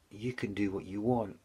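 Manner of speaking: unvoiced whisper on the edge of tears. Real, not acted. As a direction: breathe it out as the emotion takes over. Retelling breaking down before God.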